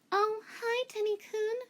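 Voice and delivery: high, awkward greeting; lightly voiced nervous girl. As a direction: chirp it out nervously.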